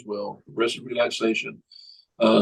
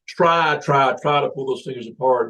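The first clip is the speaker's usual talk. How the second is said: hypnotist command; 2 semitones higher than usual. Shown as a demonstration. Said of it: "you say".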